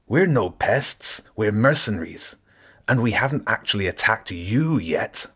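a touchy rat soldier correcting a stranger; indignant rat mercenary. Acted. Rat Zen voiced, indignant.

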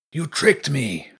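slow accusing snarl; wolf snarling he was tricked. A narrator's reading. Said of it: "he snarled".

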